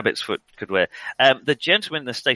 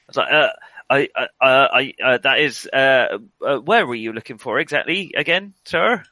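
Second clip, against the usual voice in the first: flustered stationmaster; 3 semitones higher, 4 dB louder than usual. Acted. Stationmaster stammers nervously.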